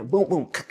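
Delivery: mimicked boom and click; imitated chaining noises. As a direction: voice the sound effects of locking on.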